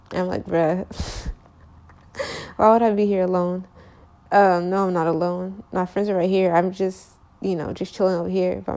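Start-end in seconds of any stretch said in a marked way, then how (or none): 0.5-3.7 amused, incredulous scoff; laughing disbelief. Retold or imitated. Incredulous reply to guy.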